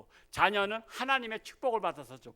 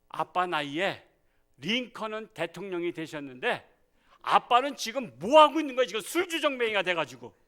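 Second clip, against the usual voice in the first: angry son; 3 semitones higher, 7 dB louder than usual. Retold or imitated. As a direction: fire back at the father in anger. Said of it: "아들이 진짜 화가 난 거야". (화난 아들의 반박)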